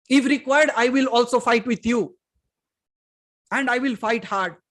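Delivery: forceful, emphatic preaching. Real, not acted. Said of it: "You see, I'm shouting right now".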